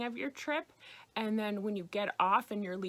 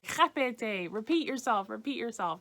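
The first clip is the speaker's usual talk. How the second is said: Répétez, barked louder and falling, no please; curt demanding; 2 semitones higher, 4 dB louder than usual. Shown as a demonstration. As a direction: demand it bluntly, rudely. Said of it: "you don't wanna be just saying".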